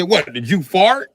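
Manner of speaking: loud, high, slow "did you fart"; mock outburst. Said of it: "I said".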